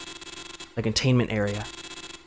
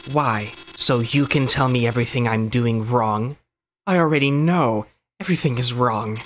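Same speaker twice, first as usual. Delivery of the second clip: bitter outburst; 5 dB louder than usual. Acted. Blanc rejects rescuer's help.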